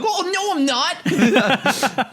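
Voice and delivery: high-pitched, hammed-up protest; flustered mock denial. Former self denying a crush on a 2D character, mock panic. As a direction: imitate a panicked denial, voice jumping way up.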